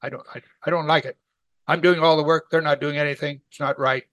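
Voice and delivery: mildly worked-up grumble; complaining. Acted. Martha grumbling that nobody helps with the work, mock complaining. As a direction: protest with a quick, stumbling start. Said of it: "all the way to complaining now".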